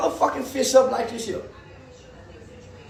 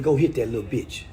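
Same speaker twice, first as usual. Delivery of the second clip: low hushed whisper in his ear; 6 dB quieter than usual. Retold or imitated. Dad whispering to his little boy, low and hushed. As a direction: hiss it low like a secret. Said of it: "I whispered in his ear".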